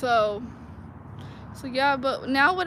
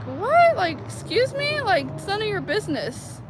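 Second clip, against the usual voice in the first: shrill-high indignant What, much higher and louder; indignant retort; 8 semitones higher, 3 dB louder than usual. Retold or imitated. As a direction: snap back offended, way up high. Indignant retort to nosy maintenance man.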